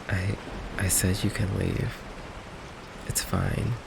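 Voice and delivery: soft, resigned and hurt; hurt resignation. Acted. Vampire telling a date they may leave, hurt and resigned. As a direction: quietly let them go.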